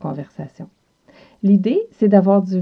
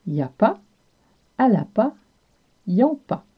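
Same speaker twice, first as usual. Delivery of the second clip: Quebec French accent; 3 semitones higher than usual. Shown as a demonstration. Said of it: "en québécois devient y a".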